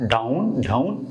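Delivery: ডাউন with the ending sound উন stretched; ডাউন drawn out so the উন ending is clear; correct down vowel. Shown as a demonstration. Teacher correcting students on ডাউন, slow careful pronunciation. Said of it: "উন হবে".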